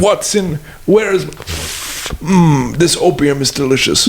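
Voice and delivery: a hammed-up British accent, way up high; mock Sherlock Holmes. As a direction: savour it like a pompous fool. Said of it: "British accent".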